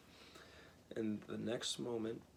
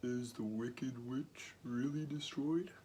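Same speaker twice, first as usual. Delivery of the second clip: trembling voice; 3 semitones higher, slower than usual. A narrator's reading. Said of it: "it trembled a little".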